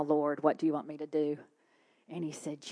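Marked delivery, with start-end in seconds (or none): 0.0-1.4 lower, subdued ask; low-pitched, surrendering question; resigned. Retold or imitated. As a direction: give in and ask calmly.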